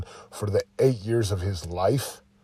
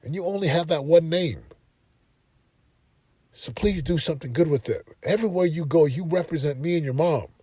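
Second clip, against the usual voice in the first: imitating dad; 4 semitones higher than usual. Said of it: "He's like".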